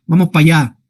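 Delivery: "Vamos pa' allá" run together as pallá, Andalusian style; Andalusian colloquial contraction. Shown as a demonstration.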